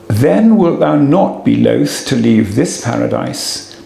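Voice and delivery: measured poetry recital in a lightly lifted voice; reciting Milton. Acted. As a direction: give the archangel's verse its weight. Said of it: "And then he says".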